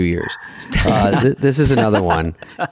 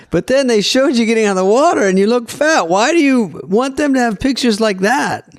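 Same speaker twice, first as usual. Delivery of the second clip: put-on German accent; 13 semitones higher than usual. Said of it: "Is this your German accent?".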